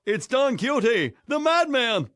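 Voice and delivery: high jeering call; taunting. Acted. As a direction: call out to mock him. Peasants taunt the passing knight.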